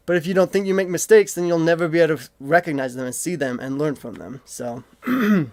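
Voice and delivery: winded, breathing hard between words. Real, not acted. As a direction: talk while catching your breath. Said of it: "sorry, I'm getting out of breath".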